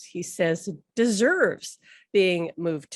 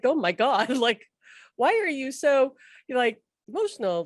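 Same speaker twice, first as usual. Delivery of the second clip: higher-pitched retold amazement; surprised; 5 semitones higher than usual. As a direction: ask it as a baffled, amused question. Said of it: "I was surprised at how emotional Alan".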